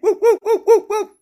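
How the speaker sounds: high, loud mock barks with laughter; imitated dog barking. Mocking Alexa as a dog that don't listen, laughing high barks. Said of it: "She's like a dog that don't listen".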